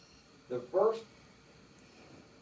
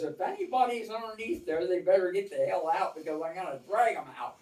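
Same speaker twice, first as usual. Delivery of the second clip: higher, louder, fast imitated sergeant warning; mock sergeant threat; 4 semitones higher, 4 dB louder, faster than usual. Sergeant warning the men about his bunk spot, fast mock threat. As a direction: rattle off the threat like a gruff sergeant.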